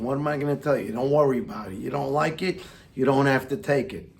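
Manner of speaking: tough guy attitude. Pretend. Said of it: "I slipped into that other thing again".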